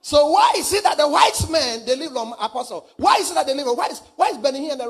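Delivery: loud, challenging sermon question; forceful preaching. Acted. Preacher challenges an apostle about long-lived ministers, forceful preaching. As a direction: put the question forcefully to the church.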